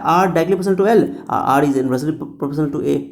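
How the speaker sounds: slow, word by word for notes; slow dictation. Shown as a demonstration. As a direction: dictate it slowly so students can write. Teacher dictating the formula. (धीरे-धीरे लिखवाते हुए)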